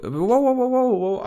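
loud, high excited wows. Acted. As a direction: cheer it out high. Excited plug announcement. (begeistert rufen)

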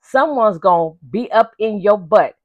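slow, heavy, deliberate quote; slow mock-solemn prison voice; quoting Fleece. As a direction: lay down the law like the Booty Warrior. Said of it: "he said".

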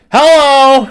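loud, high cop greeting; deputy voice. Retold or imitated. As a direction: greet the driver like a goofy deputy. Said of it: "Chance pulls up to the window, goes".

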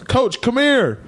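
high, long-drawn call; kid calling out. Retold or imitated. Student summons the coach to the drain, high drawn-out call. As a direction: call him over, stretching the words up high.

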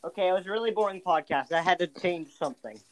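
talking in a shower stall; echoey shower voice over water; over running shower. Real, not acted. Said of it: "I'm in the shower".

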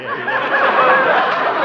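high goofy laughing yeah. Acted. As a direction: laugh it out like a silly sap. Harold laughs goofily.

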